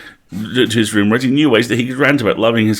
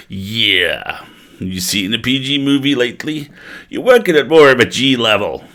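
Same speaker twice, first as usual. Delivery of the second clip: wrestler ghost; 4 semitones higher than usual. Acted. Ghost character voice.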